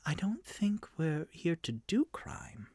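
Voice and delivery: Rock. Acted. Party member objects to the rogue's looting, lightly voiced and slow. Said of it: "Rock goes".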